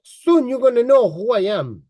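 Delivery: mimicked Russian-accented threat; imitated Russian accent. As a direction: echo his boast in a Russian accent. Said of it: "try to even say it in his accent".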